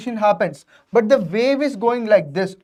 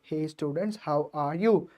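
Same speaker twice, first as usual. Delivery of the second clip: very soft, lower greeting; 6 semitones lower, 12 dB quieter than usual. Shown as a demonstration. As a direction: pull the volume right down. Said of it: "Now if, if I say".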